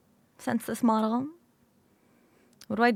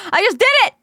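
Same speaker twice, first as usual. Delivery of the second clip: laughing exclaim; 9 semitones higher, 6 dB louder, much faster than usual. Real, not acted. Caught yawning, laughing.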